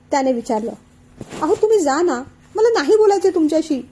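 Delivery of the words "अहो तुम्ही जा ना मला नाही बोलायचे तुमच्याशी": raised, hurt voice of a mock-tearful wife. Anandi tearfully sends her husband away. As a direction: push him away through a touch of tears. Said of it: "रडत रडत आनंदी म्हणाली".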